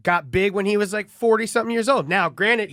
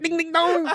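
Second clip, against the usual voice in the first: church bell noise; 8 semitones higher than usual. Retold or imitated. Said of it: "he always makes noises".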